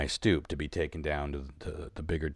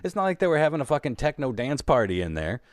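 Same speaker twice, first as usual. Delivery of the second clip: heated insistence; 5 semitones higher than usual. Real, not acted. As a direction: push hard that it can't be true. Insisting they must have heard.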